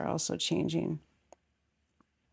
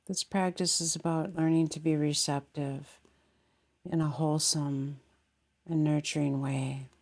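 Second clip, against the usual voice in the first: calm meditation voice with long pauses; unhurried, settling meditation guidance; guided meditation. Real, not acted. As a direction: guide them gently, leaving space between phrases. Leads guided meditation after bell.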